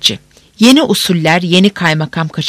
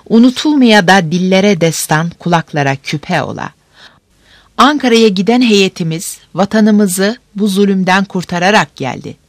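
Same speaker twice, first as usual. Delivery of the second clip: town crier. Acted. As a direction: call it out to the whole square.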